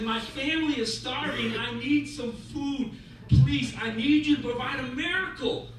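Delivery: lightly acted plea, building at the end; earnest begging. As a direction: beg for help, drawing out the need. Starving man begs for miracle.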